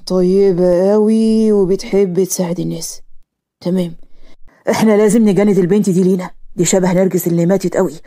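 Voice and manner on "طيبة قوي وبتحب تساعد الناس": slowly, stressing قوي with weight; slow careful repeat. Acted. Karim repeating the summary slowly to Jaser. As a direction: spell it out again slowly after the correction. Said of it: "أقصد يا جاسر".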